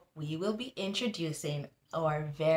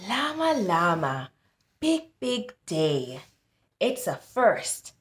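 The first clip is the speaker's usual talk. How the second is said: put-on sing-song read-aloud for kids; storybook reading. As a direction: read it like a bedtime rhyme. Reading picture book aloud.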